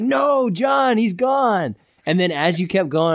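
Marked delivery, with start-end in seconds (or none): 0.0-1.7 hammed-up "no", pitched up; mock grief. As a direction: pretend mourning, high. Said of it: "I was like".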